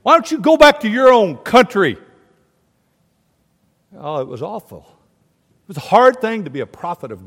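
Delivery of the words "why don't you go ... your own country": louder, higher taunting quote; mock indignant jeer. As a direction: jeer it like a heckler. Acts out hecklers of a prophet.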